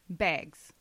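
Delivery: "bags" as "pegs" in a Minnesota accent. Real, not acted. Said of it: "my Minnesota accent".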